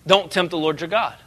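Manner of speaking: low, quiet, firm and unhurried; calm Jesus rebuking the devil; calm but authoritative. Retold or imitated. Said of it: "he's very calm, but at the same time authoritative".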